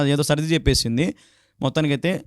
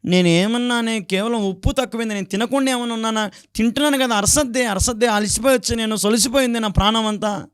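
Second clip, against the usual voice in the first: tired husband's retort; 5 semitones higher than usual. Retold or imitated. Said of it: "అరసద్దే అంటా ఉన్నాడు".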